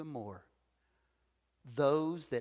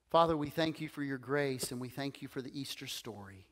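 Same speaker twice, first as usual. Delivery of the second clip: earnest spoken prayer; faster than usual. Real, not acted. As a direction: pray aloud to God, sincerely. Leads closing prayer.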